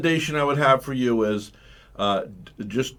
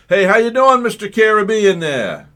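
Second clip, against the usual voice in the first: lively greeting; 9 semitones higher, 9 dB louder than usual. Real, not acted. Host greets caller on air.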